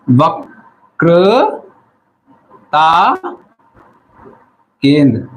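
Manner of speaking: वक्रता drawn out syllable by syllable, then केंद्र. Shown as a demonstration. Teacher dictating the term to note-taking students, very slowly, syllable by syllable. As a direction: stretch each syllable of वक्रता, pausing before केंद्र.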